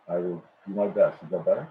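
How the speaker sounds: muffled, as if through a wall; speaking muffled, far from the microphone. Real, not acted. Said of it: "it sounds like you're muffled".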